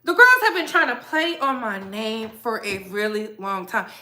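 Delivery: normal talking voice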